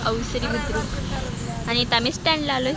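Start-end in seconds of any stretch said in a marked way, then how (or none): 0.1-1.7 slow careful repeat of अवसरी बुद्रुक; slow repeat of name. Shown as a demonstration. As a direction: repeat अवसरी बुद्रुक syllable by syllable so viewers catch it.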